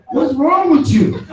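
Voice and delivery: slow, laughing disbelief; real laughter. Real, not acted. Teacher mocking the smitten king, laughing. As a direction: laugh it out slowly.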